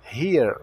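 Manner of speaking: "here" with H breathed and final R curled. Shown as a demonstration. Teacher modelling the word for learners, curled R in "here". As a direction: curl the tongue on the R of "here". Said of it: "Enrola a língua no R".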